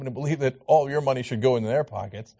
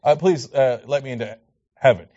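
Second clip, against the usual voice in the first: mock gullible believer; 6 semitones lower, faster than usual. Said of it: "And people are like".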